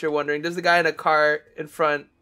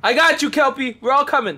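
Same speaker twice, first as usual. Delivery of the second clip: excited; 8 semitones higher, 4 dB louder than usual. Real, not acted. Rushing to help a teammate.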